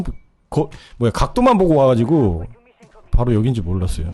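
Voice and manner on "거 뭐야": usual speaking voice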